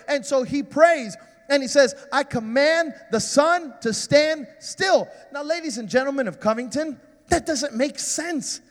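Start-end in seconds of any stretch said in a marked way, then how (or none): 2.1-5.1 commanding. Acted. Joshua commanding the sun.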